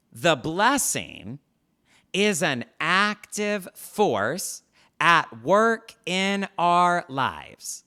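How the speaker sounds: slow emphatic statement. Shown as a demonstration. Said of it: "Write this down or type this out".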